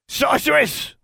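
very high squawking creature shout; shrill, high-pitched name-calling; shouted insult. A narrator's reading. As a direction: screech the word like an abusive pet. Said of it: "Honey shouted".

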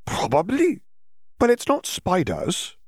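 high, slow and woozy; dreamy girl. Acted. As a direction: brush off worry in a floaty haze. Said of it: "Hermione said".

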